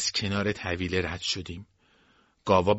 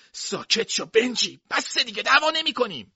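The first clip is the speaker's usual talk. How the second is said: urgent hush; 13 semitones higher, 5 dB louder than usual. A narrator's reading. Quentin hushing Benjy mid-fight.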